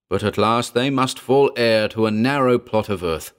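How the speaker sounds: hammy chanting cult leader; hammy stage actor. Acted. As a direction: declaim it like a ranting priest. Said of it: "rose its high semi-chant".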